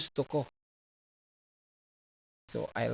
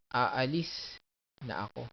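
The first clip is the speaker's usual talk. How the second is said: aalis na ako with LIS stressed and raised; "aalis na ako" in two pieces, stressed on LIS; marked accents. Shown as a demonstration.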